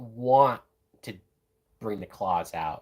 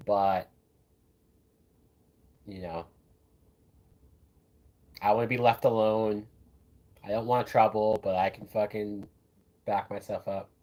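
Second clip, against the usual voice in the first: don't-care attitude. Retold or imitated. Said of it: "He pulls off the whole, like".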